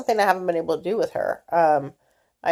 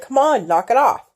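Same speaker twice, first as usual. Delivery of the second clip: raised, louder annoyed rebuke; irritated scold; 6 semitones higher, 4 dB louder than usual. Retold or imitated. Mother scolding her fidgeting daughter, louder and annoyed. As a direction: tell her to knock it off. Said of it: "I look at her like".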